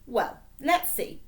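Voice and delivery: slow, musing fake professor; pretend professor. A narrator's reading. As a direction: stall like a fake scholar. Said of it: "said the pretend professor".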